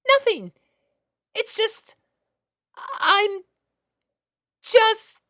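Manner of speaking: put-on high, loud, nervous young girl voice; flustered little filly. Little sister confessing her crush to big sister, high and flustered.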